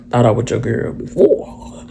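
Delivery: whispered sarcastic aside; hushed snarky reply to herself; muttered comeback. Retold or imitated. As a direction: say it under your breath, side-eyeing him. Sarcastic aside under breath.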